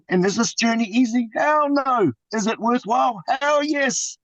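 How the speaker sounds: rallying call-and-response; emphatic answers. Real, not acted. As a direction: punch each hell no and hell yes up high. Rhetorical questions answered emphatically.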